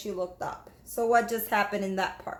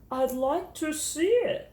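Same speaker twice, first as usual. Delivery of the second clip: slow, gentle teacher praising a pupil; warm teacher voice; 4 semitones higher, slower than usual. Acted. Teacher praising Jamaica's reading, warm and slow. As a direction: praise her reading kindly.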